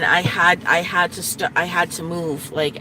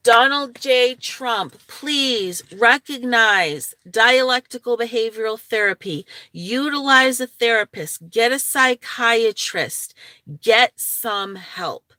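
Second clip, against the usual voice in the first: talking straight at Trump, higher and pointed; lecturing; 5 semitones higher, 4 dB louder than usual. Real, not acted. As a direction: address him like a stern teacher.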